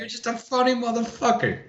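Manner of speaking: high and laughing through a tough-guy quote; laughing gangster line. Retold or imitated. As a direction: crack up mid-impression. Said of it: "get that Joe Pesci going".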